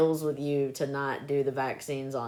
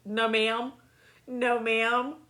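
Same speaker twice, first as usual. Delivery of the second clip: put-on meek kid; 7 semitones higher, slower than usual. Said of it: "be like".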